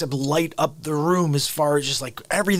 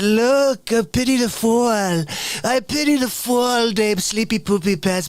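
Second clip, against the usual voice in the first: Mr. T impression; 6 semitones higher than usual. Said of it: "But Mister T said".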